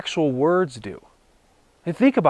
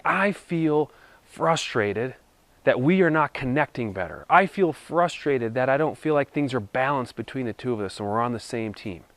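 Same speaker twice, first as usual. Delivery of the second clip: calm I-feel statement; 3 semitones lower, 3 dB quieter than usual. Shown as a demonstration. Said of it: "Notice the tone of voice versus saying".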